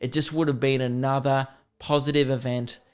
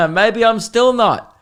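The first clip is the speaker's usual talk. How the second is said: higher, slower, through a nervous laugh; retold self-deprecating quip to the teacher; awkward laughing self-jab; 8 semitones higher, 5 dB louder, slower than usual. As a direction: laugh it off at his own expense. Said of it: "And I just went".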